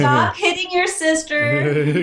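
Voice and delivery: slow stern parent voice; scolding parent. Pretend. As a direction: scold the kids from the front seat. Voicing a parent in car.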